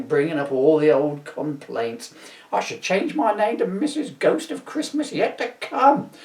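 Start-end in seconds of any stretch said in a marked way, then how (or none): 2.5-6.1 nagging wife. Retold or imitated. Imitating wife's complaints.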